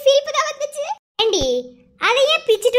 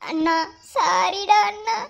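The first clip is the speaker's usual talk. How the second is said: weepy plea. Acted. Girl tearfully begs her brother's forgiveness. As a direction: plead with a breaking heart.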